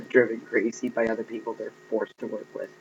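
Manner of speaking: giggling through the words; laughing while talking. Real, not acted. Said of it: "I'm sorry, that kind of thing strikes me as funny".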